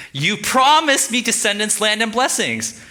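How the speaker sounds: high, loud, slow protest; hammed-up demand, every word drawn out; Abram's bold demand. Abram talks back to God about the promise, loud mock demand. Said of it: "He says this".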